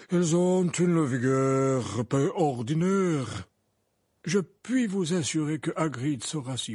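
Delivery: slow, deliberate grand lady. Acted. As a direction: stress each word slowly. Madame Maxime voiced.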